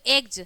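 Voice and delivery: "एग्स" said loudly as "एग्ज"; final j sound. Shown as a demonstration. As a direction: end "एग्स" on a voiced j. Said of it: "ज होगा". ("एग्स" के अंत में ज की ध्वनि)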